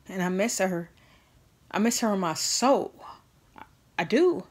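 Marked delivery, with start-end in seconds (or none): 1.7-4.4 tearful. Real, not acted. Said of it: "I cry about it a lot".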